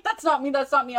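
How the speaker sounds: imitated frantic denial. Cornered boyfriend denying the video, insistent imitation. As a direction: protest innocence as the cornered boyfriend.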